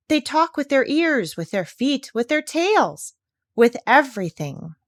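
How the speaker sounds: lightly voiced bossy parrot; parrot Polynesia. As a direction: insist like a clever bird. Parrot explaining.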